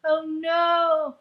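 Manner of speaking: lightly put-on lament; mock sad whining. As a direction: imitate a heroine feeling sorry for herself. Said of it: "I'm so sad".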